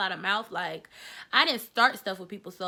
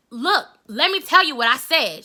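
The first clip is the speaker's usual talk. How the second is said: pleading to explain; 5 semitones higher, 10 dB louder than usual. Retold or imitated. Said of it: "I'm like".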